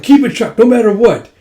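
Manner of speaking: high, loud urgent order; urgent shout. Retold or imitated. Dragons holding the bath door, shouting. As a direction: shout it while straining.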